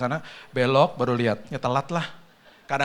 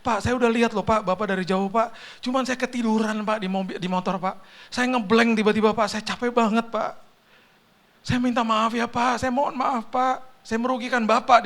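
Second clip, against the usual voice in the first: high, whining mock crying; imitated tearful pleading; 8 semitones higher, 3 dB louder than usual. Exhausted courier apologising to the car owner, tearful pleading. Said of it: "Tiba-tiba dia nangis".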